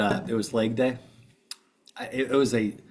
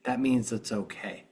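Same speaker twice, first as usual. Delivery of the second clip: eye-rolling explanation; 3 dB quieter than usual. Retold or imitated. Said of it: "he rolls his eyes and goes".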